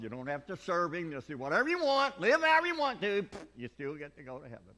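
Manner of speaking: lightly voiced mocking critic. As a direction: sneer at the Baptists.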